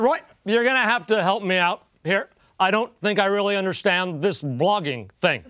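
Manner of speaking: lightly imitated veteran newsman; mild broadcaster impression; Walter Cronkite. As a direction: put on a touch of the old anchorman. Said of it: "And he said".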